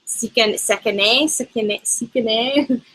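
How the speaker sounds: stumbling through "Sekene", trying it several ways; hesitant attempts at "Sekene", stressing the last syllable as "ay"; unsure mispronunciation. Real, not acted. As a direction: grope for "Sekene" and get it a bit wrong. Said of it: "I say this horribly".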